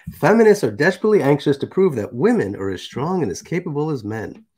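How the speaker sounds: emphatic read-out of a written text; deliberate oratorical reading; reading aloud. Acted. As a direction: read it out firmly, punching key words. Reads a manifesto aloud.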